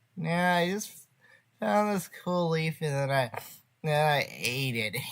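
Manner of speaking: put-on stoned voice. A character asked if they're high again answers, acting stoned. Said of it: "are you high again?".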